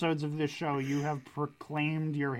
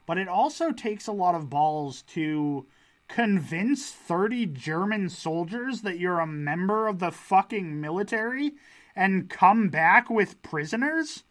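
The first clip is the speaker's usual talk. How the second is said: building amazement; 4 dB louder than usual. Real, not acted.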